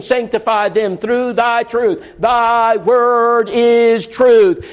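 very slow, emphatic verse; drawn-out preacher's reading; solemn scripture reading. Real, not acted. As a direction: lean on every word of the verse. Quoting scripture slowly.

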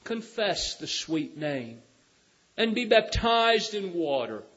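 loud, high, surging sermon; full-force preaching. Real, not acted. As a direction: preach it, calling them forward. Preaching altar call.

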